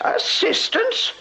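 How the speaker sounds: high, slow disbelieving echo; indignant stretched-out question; incredulous. Acted. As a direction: repeat the word as if it's absurd. Mother indignant at son's injury.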